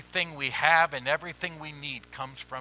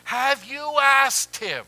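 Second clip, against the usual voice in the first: louder, higher and slow; emphatic question; 12 semitones higher, 10 dB louder, slower than usual. Acted. Pastor answers the churchgoer's doubt with a loud, slow challenge. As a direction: press the question home slowly.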